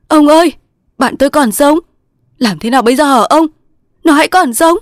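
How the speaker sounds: high, loud excited cry; shrieking. A narrator's reading. Thành shakes the old man, his friend lives, shrieking. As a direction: cry out in urgent astonishment. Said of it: "Thành rú lên".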